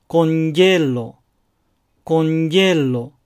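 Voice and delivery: コンジェロ said slowly with a j sound; con yelo. Shown as a demonstration. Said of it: "ということが多いです".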